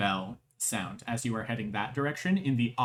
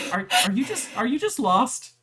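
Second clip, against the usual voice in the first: gentle guard; 10 semitones higher, 4 dB louder than usual. Acted. Guard questions lost child.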